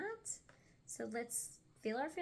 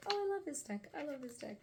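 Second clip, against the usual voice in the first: mock gushing; 4 semitones higher, faster than usual. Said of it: "I feel like I say that about every deck".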